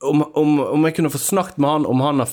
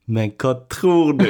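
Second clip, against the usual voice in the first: pleading question. Retold or imitated. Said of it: "og så kan jeg si".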